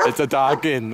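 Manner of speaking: alarmed narrator. Acted. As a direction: let the narrator's calm crack into alarm.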